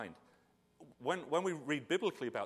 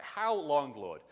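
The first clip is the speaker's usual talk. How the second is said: emphatic plea; 2 semitones higher, 5 dB louder, much slower than usual. Shown as a demonstration. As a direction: call it out like a desperate plea. Quoting the psalm again, now a plea.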